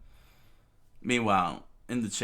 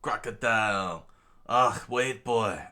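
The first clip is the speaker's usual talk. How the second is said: louder battle yell; screamed out; 3 semitones higher, 7 dB louder than usual. Acted. Luffy crashing in and yelling at Crocodile, loud battle shout. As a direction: shout it across the chamber. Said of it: "screamed out".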